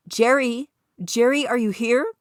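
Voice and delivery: Mary calling out to Jerry, searching. Acted. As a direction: call his name from the back rows. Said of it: "he called out".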